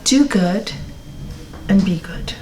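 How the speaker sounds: low, soft and unhurried; the monk answers the proud teacher simply; simple, calm. Retold or imitated. Monk calmly gives the proud teacher his answer, softly. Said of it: "the monk answers simply".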